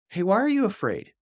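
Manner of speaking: gentle invitation. Retold or imitated. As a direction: ask it as an invitation, not a rebuke. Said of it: "less a rebuke and more of a".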